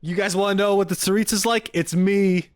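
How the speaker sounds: high, loud playful self-introduction; mock-regal bragging. Streamer posing to chat as the Tsaritsa, mock-regal bragging. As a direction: hail your subjects high and loud, jokingly.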